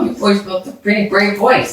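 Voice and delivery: ordinary delivery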